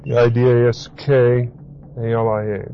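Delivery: letters spelled one by one, D I D A S K A L I A; each letter of didaskalia said separately. Shown as a demonstration. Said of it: "if you want to look up the word".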